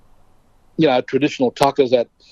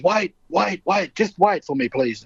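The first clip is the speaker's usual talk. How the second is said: higher-pitched, lightly acted plea to hold on; Marlon Brando; 7 semitones higher, slower than usual. Brando asking his guest to wait, lightly acted urging. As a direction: imitate an eager host asking for patience. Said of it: "and he says".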